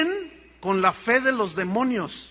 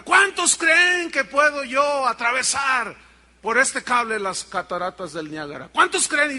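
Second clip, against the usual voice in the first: showman calling out; 4 semitones higher, 4 dB louder than usual. Acted. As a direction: shout it across the falls to the crowd. Tightrope walker shouting to crowd.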